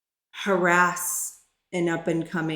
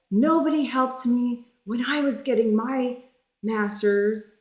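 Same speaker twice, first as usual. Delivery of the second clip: retold yell; 4 semitones higher than usual. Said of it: "yelling at me".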